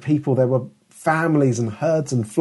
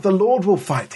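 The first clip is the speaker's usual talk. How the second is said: rebuke; 6 semitones higher than usual. Retold or imitated. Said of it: "more of an angry rebuke".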